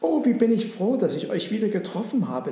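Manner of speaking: high, glad exclamation that settles down; smiling. A narrator's reading. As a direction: open high with delight, then ease off. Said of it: "lächelte sie". (erfreut lächelnd)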